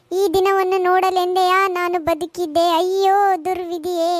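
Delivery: put-on slow, theatrical wail like an old Kannada film heroine; slow mock-tragic lament in old stage style; melodramatic stage lament. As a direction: ham up the tragic mother, drawn out. Mother laments son's suicide threat.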